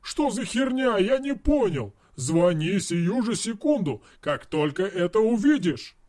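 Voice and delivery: high, excited yelling at his friend; bursting out in mock outrage. Friend yelling over a video message, outraged and excited. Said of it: "завопил".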